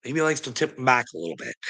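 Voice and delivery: ordinary talk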